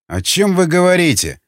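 high, put-on puzzlement; feigned surprise. A narrator's reading. Donald pretends not to understand Madeleine, mock surprised. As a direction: play innocent with lifted pitch. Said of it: "сделал наигранно удивлённое лицо".

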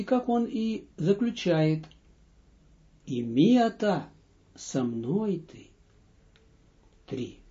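normal talking voice

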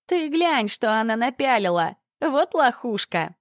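high, jeering teenage mockery; mocking girl. Schoolgirl jeering at the narrator's clothes. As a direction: sneer at her outfit.

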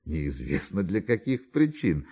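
ordinary talk

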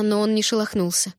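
ordinary delivery

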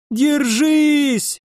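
very high cheering yell. A narrator's reading. Zombies in the shed yell to hold on, very high. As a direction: scream it to hold the line. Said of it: "вопили из сарайчика".

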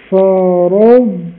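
فرضتم with the ض and ت kept apart; slow فرضتم, each letter distinct; clear dad then ta. Shown as a demonstration. Teacher to students, ض and ت kept separate. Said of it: "فقول فرضتم".

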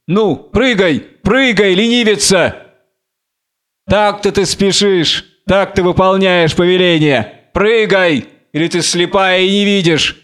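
lightly acted scornful command to pounce; taunting Samson. (насмешливый, повелительный Самсон)

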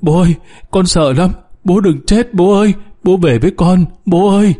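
high-pitched, understated crying plea; child's wailing plea. A narrator's reading. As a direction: narrate a frightened boy begging his father. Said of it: "Thằng bé khóc giống".

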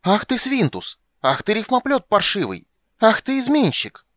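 high, loud shrieking abuse; furious scream. Acted. Jealous woman screaming at her lover from the balcony. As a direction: screech insults down at the cheating poet.

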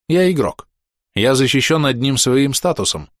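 plain reading voice

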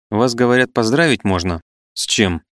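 ordinary delivery

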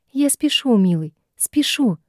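high, squeaky hurried snap; squeaky bark. A narrator's reading. The possessed man answers the troll in a high, squeaky bark. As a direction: yap it out in a high voice. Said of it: "пискляво рявкнул Гарри".

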